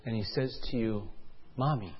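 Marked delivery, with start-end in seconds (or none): 1.6-1.9 very soft, tentative little voice; small worried child. Acted. Son on the table asks his parents, small and soft. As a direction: ask timidly, barely raising the voice.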